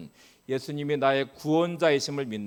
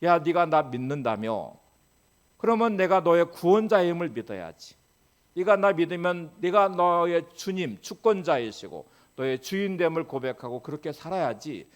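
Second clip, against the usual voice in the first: God rebuking; 4 semitones higher, 4 dB louder than usual. Retold or imitated. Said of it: "이렇게 이제 책망하실 거예요".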